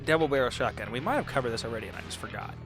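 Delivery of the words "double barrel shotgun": ordinary talk, nothing marked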